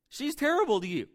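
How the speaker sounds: loud, high-pitched indignant goading; goading tempter. Acted. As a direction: push it up high, egging them on. Acting tempter's taunts about marriage.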